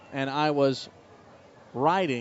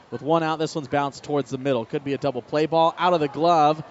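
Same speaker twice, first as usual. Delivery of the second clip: rising radio call on a double play ball. Acted. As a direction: broadcaster calling the fielder's choice. Live baseball play-by-play call.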